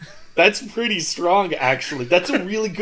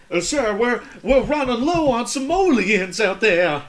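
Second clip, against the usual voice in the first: servant voice; 7 semitones higher than usual. Pretend. Servant in oil baron skit.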